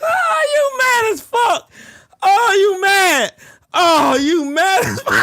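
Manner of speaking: high, drawn-out gloat on the edge of laughter; gleeful taunting. Real, not acted. Streamer gloats that rival is mad, high gleeful taunt. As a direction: crow it slowly, nearly cracking up.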